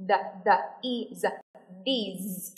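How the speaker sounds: voiced TH in pieces, then whole "these"; broken-down pronunciation. Shown as a demonstration. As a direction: build "these" from its separate sounds. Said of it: "Đưa lưỡi ra và nói".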